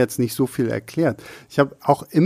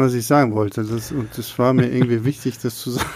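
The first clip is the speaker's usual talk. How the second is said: trailing off; 3 semitones lower than usual. Real, not acted. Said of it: "Jetzt habe ich vergessen".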